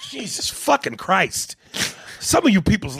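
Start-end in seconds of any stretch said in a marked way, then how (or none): 0.0-1.5 laughing. Real, not acted.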